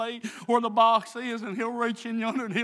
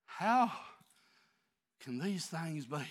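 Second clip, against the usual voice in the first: quiet musing; 9 semitones lower, 7 dB quieter than usual. Acted. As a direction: drop to a near hush and ponder aloud. Quiet reflective musing after preaching.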